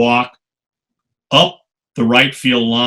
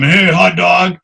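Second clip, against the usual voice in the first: mock heckler's shout, louder and higher; retold heckle yell; 7 semitones higher, 5 dB louder, slower than usual. Giants fans heckling Jose in the tunnel, loud mocking yell. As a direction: jeer it like a rowdy fan. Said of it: "yelling at him".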